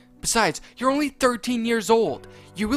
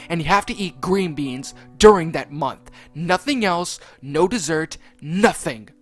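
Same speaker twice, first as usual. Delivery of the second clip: Mario snapping; 3 semitones higher, 8 dB louder than usual. Acted. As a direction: bellow the grounding, dragging it out. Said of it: "Mario yelled".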